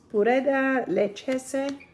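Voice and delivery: "Pureda Leccese" said in a slow, put-on Italian accent; a self-mocking stab at an Italian accent. Shown as a demonstration. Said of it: "What a terrible Italian accent".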